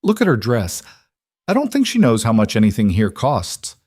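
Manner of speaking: a touch of cruel mockery, lightly voiced; cruel amusement. Male guest mocking the girl's dress, mild cruel amusement. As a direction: sneer at her, only lightly amused. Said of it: "amused in a cruel way".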